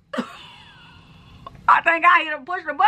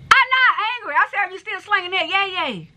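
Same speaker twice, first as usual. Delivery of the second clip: insistent, denying anger; 3 semitones higher than usual. Real, not acted. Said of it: "Why you angry?".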